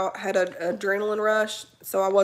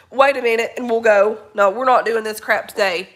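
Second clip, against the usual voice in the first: firm scolding; 6 dB louder than usual. Real, not acted. Scolding the impatient dog.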